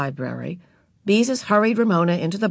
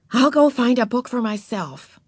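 big sister voice; 5 semitones higher than usual. Acted. Beezus voiced.

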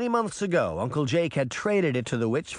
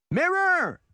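high, loud cry of the name; desperate cry; cried out; 4 dB louder than usual. A narrator's reading. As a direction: call out to him in alarm. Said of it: "she cried".

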